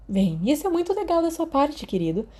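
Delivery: mais suave, enfermeira amolecendo; suavizando um pouco. Acted. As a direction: leve ternura de enfermeira. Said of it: "A voz da Madame Pomfrey suavizou". (enfermeira responde aos meninos com ternura)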